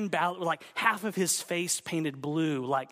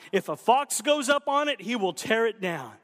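mocking quote; 4 semitones higher, 4 dB louder than usual. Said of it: "Is this all you've got?".

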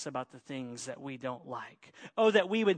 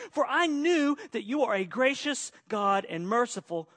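loud, complaining plea to God; angry prayer; 3 semitones higher, 5 dB louder than usual. Acted. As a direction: voice Jonah's bitter protest, raised. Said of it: "and he was angry".

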